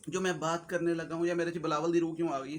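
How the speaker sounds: ordinary talk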